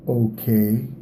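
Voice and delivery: "Okay" rising at the end, doubtful and sarcastic. Shown as a demonstration. Person answering a statement they dislike, "Okay" rising sarcastically. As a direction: let "Okay" climb like a question mark. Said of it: "that's sarcastic".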